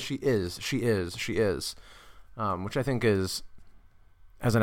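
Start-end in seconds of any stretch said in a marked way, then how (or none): 0.0-1.7 weight on "is" each time; "is" stressed over "she". Shown as a demonstration. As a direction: lean evenly on "is". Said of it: "it's always".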